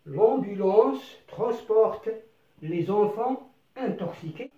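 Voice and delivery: the whole sentence read very slowly and clearly; slow model reading. Shown as a demonstration. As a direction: read the sentence at dictation speed for learners. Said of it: "نقرأ الجملة".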